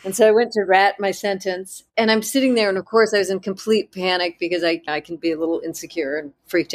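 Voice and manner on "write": WRITE said as "rat", borrowed South African vowel; playful South African pronunciation. Retold or imitated. Student echoing her teacher's word, South African accent. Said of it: "in her South African accent".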